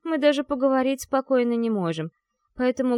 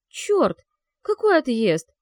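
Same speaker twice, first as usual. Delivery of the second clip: sharp, louder exclamation of annoyance; annoyed outburst; 4 semitones higher, 5 dB louder, slower than usual. A narrator's reading. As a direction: snap out the curse in irritation. Heroine frustrated outburst. (раздражённый возглас)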